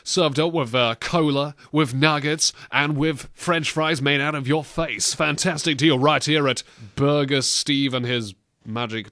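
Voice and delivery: lightly voiced fast-food pitch; burger advert. Host improvising a kiddie meal advert, mock salesman patter. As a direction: improvise a half-serious burger commercial read. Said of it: "an advert for a burger joint".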